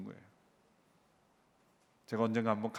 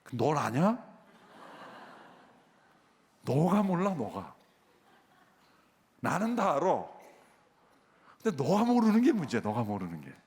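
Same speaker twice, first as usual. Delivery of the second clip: God's voice rebuking; 2 semitones higher than usual. Retold or imitated. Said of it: "하나님의 음성이".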